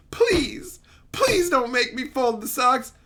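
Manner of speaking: a touch of meek begging; hammed-up timid request; mock pleading. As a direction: plead like a cowed husband. Acted henpecked husband begging his wife.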